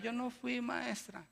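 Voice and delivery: put-on soft, lightly whimpering child; a hint of a tearful little boy; crying boy. Pepito denying it to the teacher, softly and tearfully. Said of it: "Y empieza a llorar".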